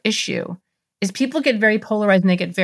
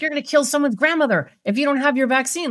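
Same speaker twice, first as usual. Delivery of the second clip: mock alarmed pro-vaccine person; 5 semitones higher than usual. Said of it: "as are the people who believe".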